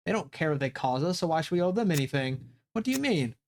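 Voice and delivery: lightly voiced calm debate; character dialogue. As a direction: read the friends' exchange. Voices Kay and friend debating.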